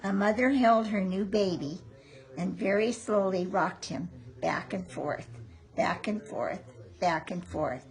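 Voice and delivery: gentle storybook reading; reading to children. A narrator's reading. Reading to grandchild.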